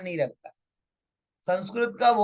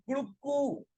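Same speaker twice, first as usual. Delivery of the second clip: short rooster call; 5 semitones higher, 7 dB quieter than usual. Retold or imitated. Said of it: "तो कुकड़ू बोला कु".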